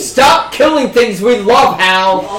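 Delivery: mock angry shout. Player protesting GM kills pets.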